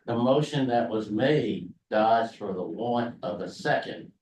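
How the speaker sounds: slow, clear repeat. Real, not acted. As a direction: repeat it slowly for someone who missed it.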